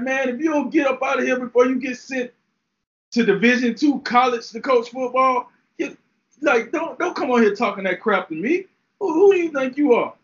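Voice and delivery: a hint of the star player snapping back; voicing Jalen Ramsey. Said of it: "I'm like".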